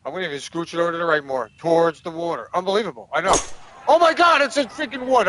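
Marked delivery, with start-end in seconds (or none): 3.9-5.3 high, loud disbelieving cry; shocked outburst. Real, not acted. Gamer realizing he picked a wood, high shocked outburst. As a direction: shoot up in pitch, stunned by the club.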